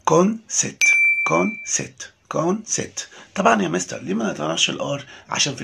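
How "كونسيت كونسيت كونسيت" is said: كونسيت said the British way with no r sound and a long vowel, higher and louder at first; British pronunciation. Shown as a demonstration. Teacher drilling pupils on British كونسيت without the r. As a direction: say كونسيت as kon-seet, dropping the r after the vowel. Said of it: "لكن في البريتش لو الار جت بعد حرف متحرك ما بنطقهاش".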